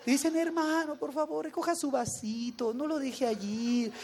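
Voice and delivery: meloso y lento, un poco más suave; voz melosa. Retold or imitated. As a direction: dulce como miel, arrastrando las palabras. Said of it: "te hablan así con miel". (hermano meloso que regaña con dulzura)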